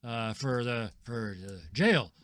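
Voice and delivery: a bad liar bluffing at the gate; bumbling fake guard. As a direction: stumble through the lie loudly. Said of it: "Rand says".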